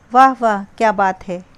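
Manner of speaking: bright acted praise; delighted praise. Shown as a demonstration. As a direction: cheer someone on with real delight. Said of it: "कुछ शब्द विस्मयादिबोधक अव्यय का काम कर रहे हैं".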